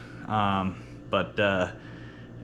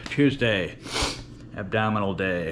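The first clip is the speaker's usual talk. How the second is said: lisp. Real, not acted. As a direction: let the s sounds slip through the gap. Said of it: "sorry for the lisp. Got no top teeth".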